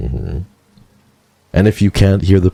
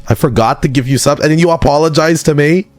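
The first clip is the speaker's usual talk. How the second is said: surprised; 13 semitones higher than usual. Real, not acted. Gifter apologizes to her.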